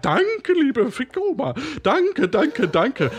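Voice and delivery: gushing mock thanks; fawning, high thank-you; overly grateful. Parodies grateful radio callers. (übertrieben dankbar)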